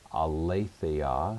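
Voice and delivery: Aletheia repeated slowly as a model, ah-lay-THAY-ah; careful pronunciation. Shown as a demonstration. Teacher showing students the correct pronunciation, slow careful Aletheia, ah-lay-THAY-ah. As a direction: draw out Aletheia, stressing the antepenult. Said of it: "that would be the pronunciation here".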